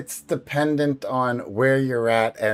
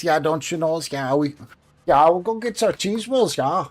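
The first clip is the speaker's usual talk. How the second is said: lightly nasal, Canadian-like Northern accent; 3 semitones higher than usual. Shown as a demonstration. Showing how northeasterners talk, nasal Canadian-like Northern accent. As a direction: put on a Canadian-leaning Northern twang. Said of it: "like, Canadian, more nasally".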